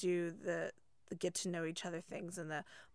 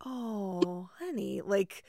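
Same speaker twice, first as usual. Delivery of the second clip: patronizing teacher; 3 semitones higher than usual. Retold or imitated. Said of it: "And you're like".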